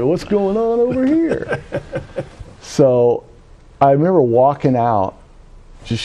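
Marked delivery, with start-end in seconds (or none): 0.0-1.6 high, slow comic what's-happening voice; mock bewildered onlookers. Whole Texaco reacting to the screaming woman, mock bewilderment. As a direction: stretch it out high, imitating gawking customers. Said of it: "everybody in the, in the Texaco is like".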